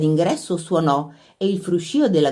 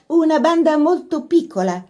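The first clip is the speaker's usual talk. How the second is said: put-on higher, gentle polite girl; 11 semitones higher than usual. A narrator's reading. Laura answering the workmen about the band, politely. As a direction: say it with careful courtesy. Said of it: "disse con garbo Laura".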